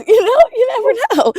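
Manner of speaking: high, loud words through laughter; cracking up mid-sentence; laughing. Real, not acted. Laughing after calling someone dumbass.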